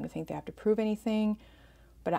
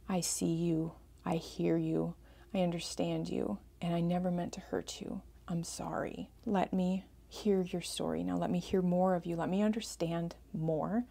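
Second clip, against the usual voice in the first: gentle apology; 5 dB quieter than usual. Shown as a demonstration. Models a tender apology to estranged child.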